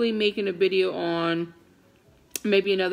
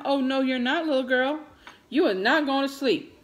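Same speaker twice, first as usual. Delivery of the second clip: retold mom scolding; 5 semitones higher than usual.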